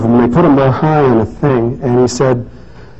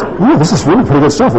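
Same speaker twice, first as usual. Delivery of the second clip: lightly voiced slow cowboy drawl, pitched up; a hint of Slim's drawl, delighted; amused take on a cowboy friend; 6 semitones higher, faster than usual. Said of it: "he's very slow in talking ... a little oaky drawl".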